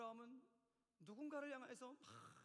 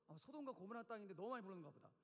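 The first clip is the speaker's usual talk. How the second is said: slightly lowered second-guessing aside; flustered; 3 semitones lower than usual. Acted. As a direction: think aloud, caught off guard. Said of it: "아브라함이 당황해갖고". (당황한 혼잣말처럼)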